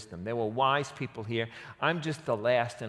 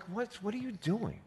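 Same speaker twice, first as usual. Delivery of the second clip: higher, animated voice of the wise woman; woman protesting the city's destruction, higher and animated; pleading woman; 8 semitones higher than usual. Retold or imitated. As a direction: plead with him, indignant and amazed. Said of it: "She's like".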